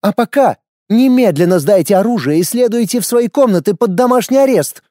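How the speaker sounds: high, menacing order; open threat. A narrator's reading. Lorana ordering house arrest with open threat. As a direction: threaten them openly. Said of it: "с откровенной угрозой в голосе".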